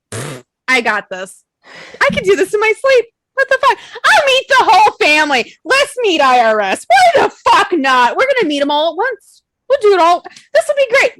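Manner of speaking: cocky bravado. Retold or imitated. Mocking her own overconfidence.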